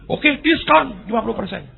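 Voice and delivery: high, loud pronouncement; booming God. Acted. God answers the donkey with a booming grant. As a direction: announce it grandly from above.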